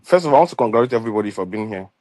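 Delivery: talking around a dental retainer; retainer in mouth. Real, not acted. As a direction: speak with a retainer in. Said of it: "I have a retainer in my mouth".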